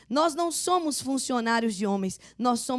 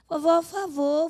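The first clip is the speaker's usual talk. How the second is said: pleading grandchild; 5 semitones higher than usual. Retold or imitated. Grandson Levi begs grandma by phone.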